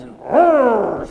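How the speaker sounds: sudden loud high roar of an angry mama; mock roar. Preacher to congregation, imitating mama's roar, loud and high. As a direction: belt it out like a fierce mother. Mother's fierce temper described.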